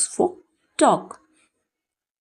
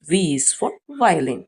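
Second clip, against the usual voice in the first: slow drill; much slower than usual. Shown as a demonstration. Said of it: "slow teaching drill".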